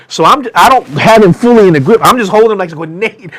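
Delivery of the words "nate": loud, high, drawn-out begging; desperate pleading. Retold or imitated. Holding Nate back and begging him home, desperate. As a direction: beg him, stretching the words slowly up high.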